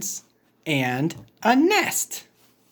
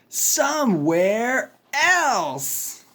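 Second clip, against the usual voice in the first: high slow reply; 6 semitones higher than usual. Acted.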